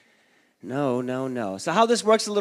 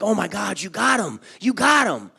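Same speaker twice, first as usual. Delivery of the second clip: louder excited cheer; excited friends; 3 semitones higher, 6 dB louder than usual. Retold or imitated. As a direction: hype up the new pants. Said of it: "my friends are like".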